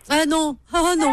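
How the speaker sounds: drawn-out high call of protest; excited protest. Real, not acted. Host playfully protesting to caller about the final. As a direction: shout it out, laughing it off.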